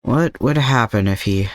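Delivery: steady, subdued reading of a sad chapter; story narration. A narrator's reading. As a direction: read it out evenly, letting the heavy moments sit. Reads the fanfic chapter aloud.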